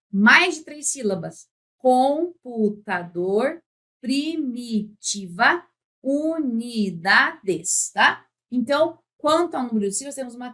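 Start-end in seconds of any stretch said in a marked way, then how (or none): 1.8-7.9 "Computador, primitiva, unidades" muito lento, escandido; sílaba por sílaba. Shown as a demonstration. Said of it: "para separar sílabas". (palavras ditas pausadamente, em sílabas)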